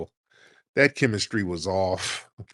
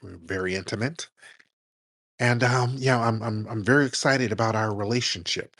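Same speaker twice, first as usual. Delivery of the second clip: mocking stiff Cory Booker; 2 semitones lower than usual. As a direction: mimic a man reciting a practiced line about his girlfriend. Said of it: "Dudes don't talk like that".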